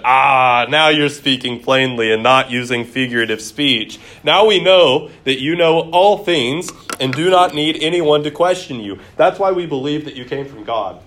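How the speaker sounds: the disciples finally getting it, lifting up; reading the disciples with rising excitement; eager disciples. Acted.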